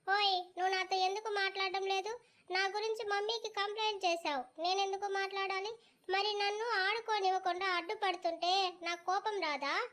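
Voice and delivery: put-on high, pouty child voice complaining; a small girl scolding a boy who told on her; sulky little girl. Little Aadya scolds Chaitanya for telling on her, high and pouty.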